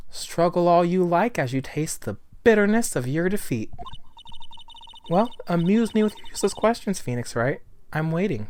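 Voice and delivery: lightly voiced imperious rival; haughty prosecutor. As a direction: taunt the opponent with a touch of disdain.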